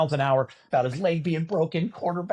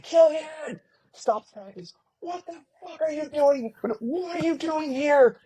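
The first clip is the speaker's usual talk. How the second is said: coach screaming; 13 semitones higher, slower than usual. Retold or imitated. Coach screaming at player in practice, furious yell. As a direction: bellow at the player like an enraged coach. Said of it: "Coach Franzen was screaming at him".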